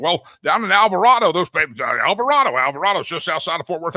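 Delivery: Alvarado as the news anchors say it; mocking news anchor. Host imitating Fox News anchors saying Alvarado, mocking. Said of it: "they keep saying".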